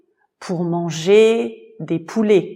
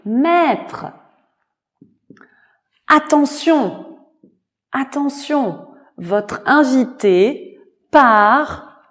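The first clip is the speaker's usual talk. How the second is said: alarmed call; 5 semitones higher than usual. Acted. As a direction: raise the alarm. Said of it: "elle a crié".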